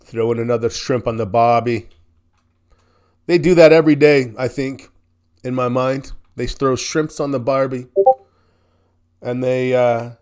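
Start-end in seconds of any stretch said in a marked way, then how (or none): 0.0-1.9 badly faked Australian accent; terrible Australian accent. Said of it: "I know my accent's terrible". 6.4-7.9 lightly faked Australian accent; mock Australian twang, poorly done; terrible Australian accent. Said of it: "I know my accent's terrible".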